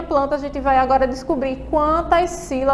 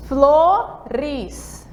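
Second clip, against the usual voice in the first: syllable count. Shown as a demonstration. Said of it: "ou contando aí nos dedos".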